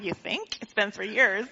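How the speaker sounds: put-on dry, deadpan kid comeback; a little snarky. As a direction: quietly roll your eyes at it. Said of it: "A little snarky".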